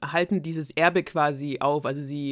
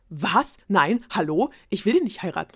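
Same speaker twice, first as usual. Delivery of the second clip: shocked protest; 3 semitones higher, 6 dB louder than usual. Acted. Princess shocked by the marriage.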